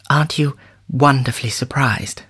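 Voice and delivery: breathy whispered question. A narrator's reading. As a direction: whisper it close to him. She speaks softly to lover.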